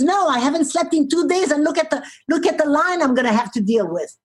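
exhausted agent protesting. Retold or imitated. Tired agent to traveller at the counter, mild exasperation. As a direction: imitate a worn-out worker pleading her case. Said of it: "and she says".

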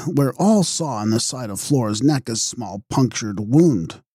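ordinary delivery

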